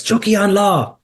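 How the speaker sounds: imitating a celebratory slogan shout, high-pitched; retold shout. Councillor celebrating his election, mock victory shout. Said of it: "then he shouts".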